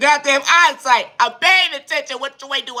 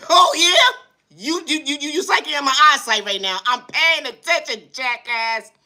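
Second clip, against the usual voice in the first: panicked retort; 3 semitones higher than usual. Acted. Panicked reply to owner.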